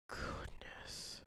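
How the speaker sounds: whispered to himself. Real, not acted. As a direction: breathe the word out, no voice. Muttering to himself at screen.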